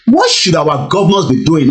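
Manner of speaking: normal talking voice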